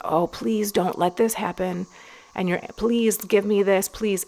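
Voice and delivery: mock pleading, slow start rising; begging. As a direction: act out a begging prayer, lightly. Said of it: "you're begging".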